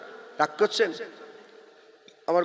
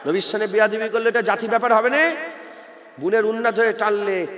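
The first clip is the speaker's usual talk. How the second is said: normal talking voice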